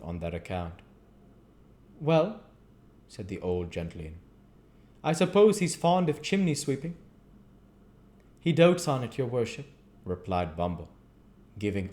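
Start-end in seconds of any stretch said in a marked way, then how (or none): 2.0-6.9 put-on high, loud doddering old gentleman; old magistrate. A narrator's reading. 8.4-9.7 high, loud fawning beadle. A narrator's reading. Beadle voiced in story.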